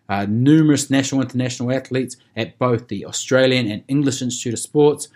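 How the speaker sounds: short of breath from a long list. Real, not acted. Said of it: "I'm running out of breath here".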